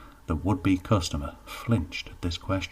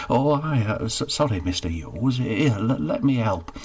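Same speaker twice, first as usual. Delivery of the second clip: flustered stammer; 4 semitones higher, 4 dB louder than usual. Acted. Geoffrey flustered.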